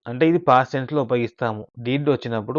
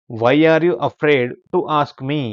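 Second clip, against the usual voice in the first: slow model reading; 2 semitones higher, 5 dB louder, much slower than usual. Shown as a demonstration. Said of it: "teacher models English sentence slowly".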